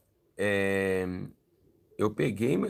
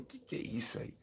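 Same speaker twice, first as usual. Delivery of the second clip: baffled murmur; 3 semitones lower, 15 dB quieter than usual. Retold or imitated. Baffled aside in church.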